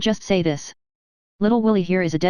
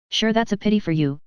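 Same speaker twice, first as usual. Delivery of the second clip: cheerfully; 3 semitones higher than usual. Acted. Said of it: "said Julius cheerfully".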